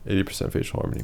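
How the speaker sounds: soft whispered repeat. Real, not acted. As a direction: whisper it to yourself.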